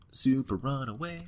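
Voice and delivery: Super stretched slowly, rising at the end; slow sing-song. Shown as a demonstration. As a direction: draw it out playfully.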